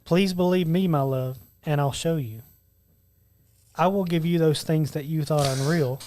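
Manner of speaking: slow, hushed love-poem reading; romantic recitation. Acted. Reads a love lyric to his friends as romantic Valentine's poetry, romantic recitation. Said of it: "Why are you saying it like that?".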